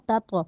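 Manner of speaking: تا تو with a bounced, echoing tau; qalqala. Shown as a demonstration. Teacher models qalqala on tau. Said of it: "اس کو ہلا کے پڑھنا ہے".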